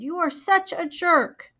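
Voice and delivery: high, slow, indignant; exasperated scolding. A narrator's reading. Sister scolds brother on the phone, exasperated. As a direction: drag it out in outrage.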